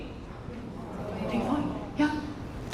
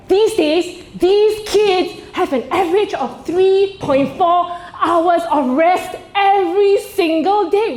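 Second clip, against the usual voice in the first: higher, slow, preachy tiger mom lecture; mock tiger mom; 5 semitones higher, slower than usual. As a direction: lay it on like a strict tiger mom. Mocking tiger mom boasting.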